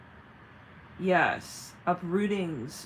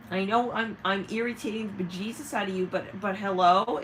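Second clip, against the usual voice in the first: pushy, abusive; 5 dB louder than usual. Acted. Irritating person pestering for attention, mock-insistent. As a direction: act out someone irritatingly insistent. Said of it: "Kind of energy, okay? Very, ab-, honestly abusive".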